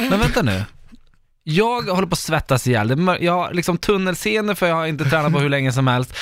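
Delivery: retold exasperated rant; mildly worked-up complaint; irritated. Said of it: "jag blev så irriterad".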